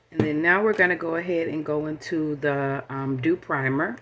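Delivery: talking while chewing gum; words around a piece of gum. Real, not acted. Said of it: "sorry, I'm chewing gum".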